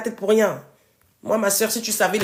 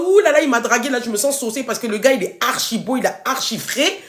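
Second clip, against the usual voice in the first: mock lovestruck girl; 4 semitones higher than usual. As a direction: mimic a smitten woman gushing over a handsome guy. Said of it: "en mode".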